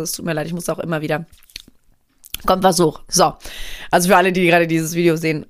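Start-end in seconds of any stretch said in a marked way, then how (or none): 2.5-4.7 stuffy nose from a cold; blocked nose. Real, not acted. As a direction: speak through a runny nose. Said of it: "so eine verrotzte Nase".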